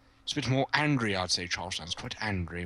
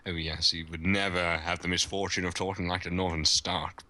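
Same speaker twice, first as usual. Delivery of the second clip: lightly voiced posh English accent; mildly put-on posh, proper accent; posh correct English. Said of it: "very correct with his grammar".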